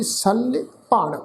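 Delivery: ਸਲ with a half "y" after the ਲ, then ਭਣ; pronunciation demo. Shown as a demonstration. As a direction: say ਸਲ as "saly", apart from ਭਣ. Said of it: "ਤੋ ਪਾਠ ਉਚਾਰਨ ਕਰਾਂਗੇ ਜੀ".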